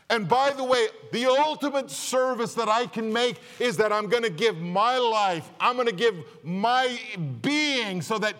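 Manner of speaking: rising fervent sermon delivery; forceful preaching. Acted. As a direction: drive it home from the pulpit. Preacher voicing Jesus at full force.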